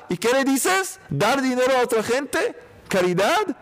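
high, disbelieving questions; mock outrage at the advice; incredulous. Voicing incredulous objection.

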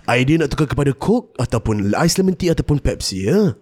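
lightly voiced FM radio host; radio announcer voice. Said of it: "The My Radio announcer voice".

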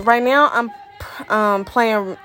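breathless, gasping between words; out of breath. Real, not acted. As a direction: talk while catching your breath. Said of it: "I'm out of breath right now".

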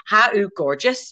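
slow Gaelic lilt on "Ha u gorgeous"; Gaelic-style accent. Shown as a demonstration. Teacher gives the Gaelic for you are gorgeous, slow Gaelic accent. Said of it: "you sort of say it like that".

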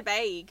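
"bag" said as "bayg"; puzzled echo of "bag" with an "ay" vowel; imitated long vowel. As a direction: make "bag" rhyme with vague. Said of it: "you do longer vowels".

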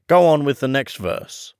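quick, pushy Gryphon voice; hasty Gryphon. A narrator's reading. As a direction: hurry the storyteller along. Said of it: "said the Gryphon hastily".

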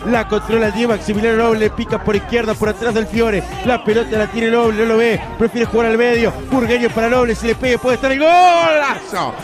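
rapid-fire radio play-by-play; breakneck goal commentary. Real, not acted. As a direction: rattle off the build-up fast.

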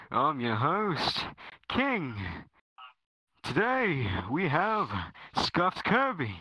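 grand, swooping announcer intro; put-on podcast host voice. The host opening the podcast, grand host voice. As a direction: announce it with big rises and falls. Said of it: "hard to say Scuffed in my voice".

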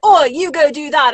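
mock commanding bark of an order; commanding gruff order. Mimicking the commanding half-orc's order to the party. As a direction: imitate his bossy, serious command. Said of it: "he was very, like, commanding and serious".

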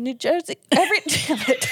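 slipping into a Jersey accent; New Jersey in a Jersey twang. Real, not acted. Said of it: "what the heck was that".

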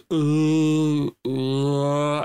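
a dying troll's bewildered moan; troll groan. Retold or imitated.

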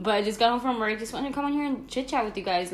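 talking while eating noodles; chewing between words; mouth full. Real, not acted. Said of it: "but I'm eating a maruchan".

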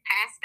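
"Pasta" with a short flat A as in cat; imitated British "Pasta"; his pasta. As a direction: say "Pasta" as PASS-ta, British style. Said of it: "the way he says pasta".

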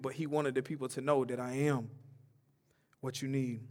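quiet preacher intimacy; soft. Acted. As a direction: drop to a hush for weight. Soft close.

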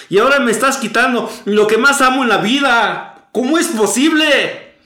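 rising despair, voice climbing and pushing; anguished cry to God. Retold or imitated. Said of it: "Y empiezo a gritar". (clamor angustiado a Dios, cada vez más fuerte)

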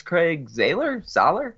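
Zahler tried as ZAY-ler then SAH-ler, both rising; unsure pronunciation. Real, not acted. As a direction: test the name Zahler two ways with a rising, unsure tone. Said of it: "Not sure how you pronounce".

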